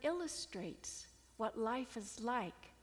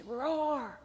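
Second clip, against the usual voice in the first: sheep lion's roar; 3 semitones higher, 6 dB louder than usual. Acted. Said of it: "And then he says".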